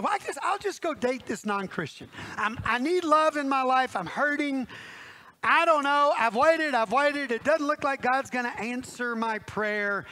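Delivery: mildly plaintive acted voice; lightly acted frustration, easing off at the end; hurting complaint. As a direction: play someone tired of waiting. Voices an impatient, hurting single.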